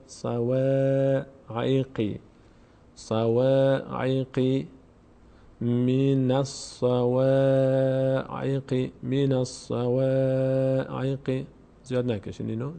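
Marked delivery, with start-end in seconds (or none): 0.1-11.4 slow, drawn-out Quranic recitation. Shown as a demonstration. Tutor reciting the phrase slowly for students. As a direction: intone the phrase, lengthening every vowel. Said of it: "teacher reciting the verse slowly".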